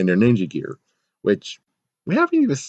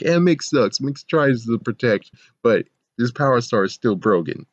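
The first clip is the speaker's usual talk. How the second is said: mocking quote; 3 semitones higher than usual. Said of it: "He's like".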